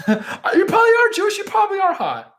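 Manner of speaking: high, loud laughing outburst; laughing excited shout. Real, not acted. Streamer shouting back at a viewer's comment, laughing and excited.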